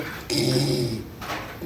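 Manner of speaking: choked, voiceless wheeze of a laugh; breathless silent laugh. Retold or imitated. Comic imitating his friend who can't laugh, wheezing. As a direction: imitate someone laughing with no air. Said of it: "he starts to laugh ... and he goes".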